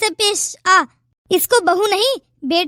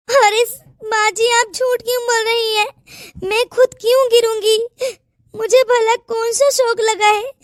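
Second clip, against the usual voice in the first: weepy, pleading words through mock tears; tearful protest. Daughter-in-law denies falling on purpose, tearful. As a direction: sob out the denial to her mother-in-law. Bahu accused of faking fall.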